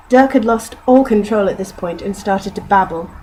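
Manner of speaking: steady storybook reading; story narration. A narrator's reading. Reading Douglas Adams to listeners, steady narration. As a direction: narrate the novel passage evenly. Reads novel passage aloud.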